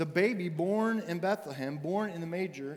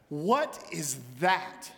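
incredulous; much slower than usual. Retold or imitated. Wife staring at the dragon, slow and dismayed. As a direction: drag out the question in dismay.

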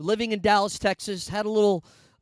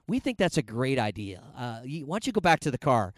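mock-agreeing friends; 5 semitones lower, 3 dB quieter than usual. Friends' joint reply to crying man.

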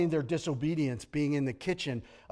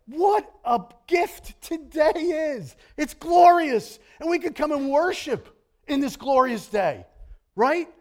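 joyful praise; 11 semitones higher, 6 dB louder than usual. Retold or imitated. Preacher voicing a grateful brother's joyful prayer. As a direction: proclaim the day as a gift. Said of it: "One brother prayed that way".

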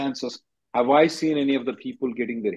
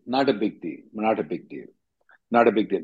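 reassuring; 3 semitones lower than usual. Real, not acted. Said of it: "You don't have to worry about it".

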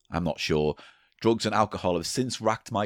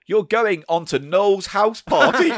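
announcer voice; 9 semitones higher, 6 dB louder, slower than usual. Retold or imitated. Announcer voice in retold story.

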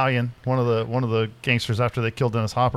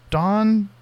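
high, drawn-out amused Don Vincenzo?; giggling vet staff; 10 semitones higher, much slower than usual. Retold or imitated. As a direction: stretch the name out like stifling a giggle. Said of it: "they, like, giggle".

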